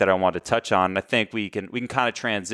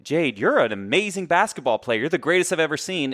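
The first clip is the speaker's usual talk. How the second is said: insincere flattery; 6 semitones higher than usual. Pretend. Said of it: "it has to be sincere".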